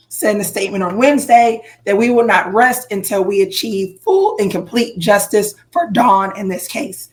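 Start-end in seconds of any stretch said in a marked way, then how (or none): 2.0-7.1 hoarse, voice giving out; losing voice. Real, not acted. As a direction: talk with a voice that is going. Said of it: "my voice is about to, is leaving".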